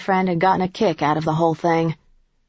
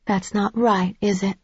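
gentle; 3 semitones higher than usual. A narrator's reading. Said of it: "keeping my voice gentle".

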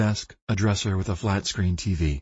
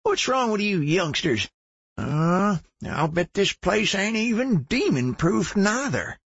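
put-on redneck old man voice. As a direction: play a crazy redneck survivalist geezer. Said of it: "his best redneck survivalist crazy-ass old man voice".

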